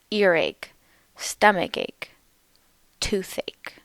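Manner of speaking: "Earache", "stomach ache", "toothache", each falling away after a stressed first syllable. Shown as a demonstration. Teacher modelling "Earache", "stomach ache", "toothache" for learners, first-syllable stress. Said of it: "the stress is on the first syllable".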